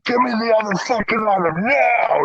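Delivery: high, insistent mock command; retold angry demand. Guard to caught thief, re-enacted angry demand. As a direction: act out an urgent demand.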